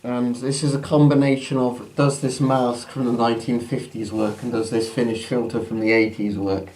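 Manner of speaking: muffled behind a gas mask; talking through a mask. Real, not acted. Mask put on at line 40.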